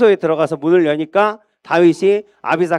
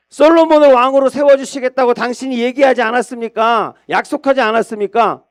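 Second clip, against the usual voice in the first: insistent reminder; 6 semitones higher than usual. Acted. Bathsheba presses the king on his promise, insistent. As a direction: hold him to his word.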